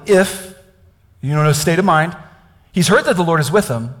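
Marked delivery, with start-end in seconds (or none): 0.1-0.5 IF set apart, raised and loud; slow, deliberate reading. Shown as a demonstration. Preacher rereading Gideon's doubt for the congregation, slow and emphatic. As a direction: isolate the word if with weight. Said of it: "I'm gonna read this slowly".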